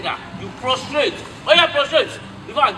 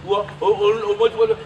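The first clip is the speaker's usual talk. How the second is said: put-on a disrespectful child shouting ìwọ at an elder; mock rude greeting; 2 semitones lower than usual. Father mimics a rude child calling an elder ìwọ, in a shouted mock greeting. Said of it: "you say".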